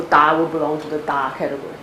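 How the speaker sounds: normal talking voice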